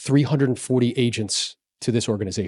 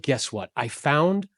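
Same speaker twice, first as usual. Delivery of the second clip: ordinary delivery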